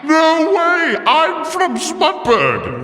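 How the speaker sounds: high, gushing, slow astonishment; hometown delight. Acted. Villain gushing to Jerry about their shared hometown, delighted. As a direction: squeal it like finding a long-lost neighbour.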